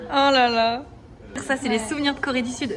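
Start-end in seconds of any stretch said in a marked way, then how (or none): 0.1-0.8 loud excited oh là là; real thrilled exclamation; delighted. Real, not acted. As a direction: gasp with joy at the gift. Friend's souvenirs from Korea.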